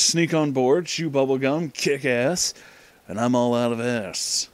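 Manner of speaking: usual speaking voice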